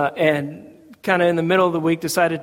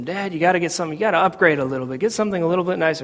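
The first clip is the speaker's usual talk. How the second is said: merciless nagging; faster than usual. Retold or imitated. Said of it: "kids would just be merciless".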